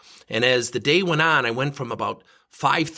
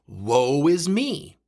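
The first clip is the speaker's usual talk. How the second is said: mock self-pity; much slower than usual. Mocking his own self-pity.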